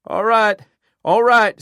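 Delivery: frantic screaming give-in; screamed. A narrator's reading. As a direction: scream the surrender. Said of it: "Savage screamed".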